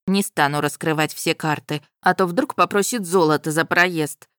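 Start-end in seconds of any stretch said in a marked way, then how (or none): none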